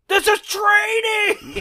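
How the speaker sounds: high, loud, drawn-out shout; imitated yell. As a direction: bellow it slowly, mimicking the film hero. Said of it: "By yelling, like".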